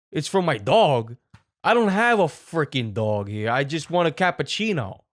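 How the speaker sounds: hammed-up irate coffee shop customer; angry Italian man. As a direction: improvise a mildly worked-up, exasperated Italian guy. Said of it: "I'm an angry Italian man".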